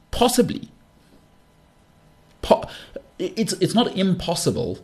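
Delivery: coy, high "Possibly."; mock grandiose. Real, not acted. Host teasing listeners he might be the second coming, coy. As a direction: tease the idea with a wink.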